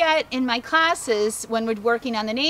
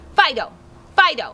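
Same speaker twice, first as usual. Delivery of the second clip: firm, emphatic raised call without harshness; 5 dB louder than usual. Recall training demo, calling fido in an emphatic, not mean way. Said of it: "it's not going to sound mean. It's going to sound emphatic".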